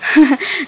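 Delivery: a short weak attempt at a laugh; faint uneasy chuckle; forced little laugh. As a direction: try to laugh it off. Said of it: "একটু হাসবার চেষ্টাও করল".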